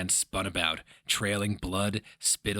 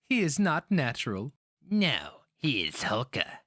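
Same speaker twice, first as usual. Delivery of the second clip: put-on young woman; 6 semitones higher than usual. A narrator's reading. Girl and old woman dialogue.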